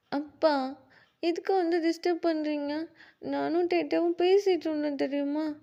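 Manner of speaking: put-on high, loud child's protest; a boy annoyed at being interrupted; indignant little boy. Kuki telling his father off, loud child voice.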